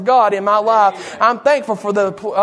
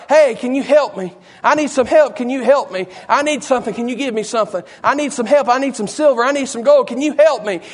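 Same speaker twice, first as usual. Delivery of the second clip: raised, higher-pitched repeated plea; crying out; 3 semitones higher than usual. Acted. Lame man begging everybody that passed by, crying out. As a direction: beg each passer-by, pitch lifted. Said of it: "I believe that man was crying".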